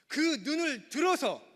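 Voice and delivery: slow, high and loud, as God calling out; God's booming voice. Acted. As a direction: proclaim it like God from above. 설교자가 하나님 말씀을 연기함. (하나님 목소리로 크게 외치듯)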